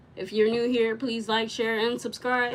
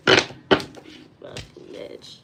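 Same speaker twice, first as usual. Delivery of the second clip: cursed under breath; 7 dB louder, much slower than usual. Real, not acted.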